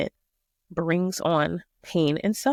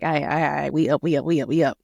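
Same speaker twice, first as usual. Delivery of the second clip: groggy disciples; 4 semitones lower, faster than usual. Acted. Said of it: "I'm saying it how I'm picturing it".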